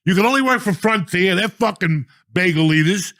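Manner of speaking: high-pitched, loud scornful rant; angry telling-off. Retold or imitated. Telling off the airline kid.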